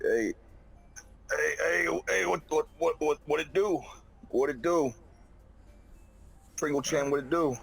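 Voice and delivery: put-on high squeaky girly voice; girl three voice. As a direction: pitch way up, playful hey-what-it-do. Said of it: "I'll be like".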